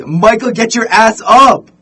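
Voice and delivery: high, loud furious yell, slowed down; the angry wife yelling at her hungover husband; wife screaming. Retold or imitated. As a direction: scream him out of bed. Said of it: "his wife screams".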